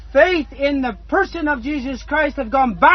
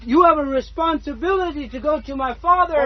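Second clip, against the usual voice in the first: tearful plea. Real, not acted. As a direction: voice catching with tears as he pleads. Preacher pleading with congregation.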